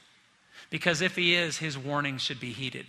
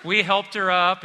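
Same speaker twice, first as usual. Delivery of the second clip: laughing through the words; can't stop laughing as he tells it; louder laughing retelling; 2 semitones higher, 4 dB louder than usual. Real, not acted. Laughing while retelling the spill.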